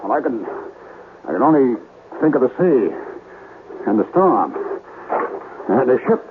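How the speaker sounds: fearful rambling. Acted. Terrified, fixating on a vision.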